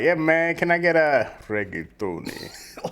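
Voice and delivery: lightly put-on laid-back voice, drawn-out ending; change your voice slightly to order, stretched out. Customer ordering food, lightly put-on voice. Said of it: "Why'd your voice change".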